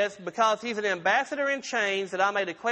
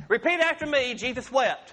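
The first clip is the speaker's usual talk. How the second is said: call to repeat; 3 semitones higher than usual. Shown as a demonstration.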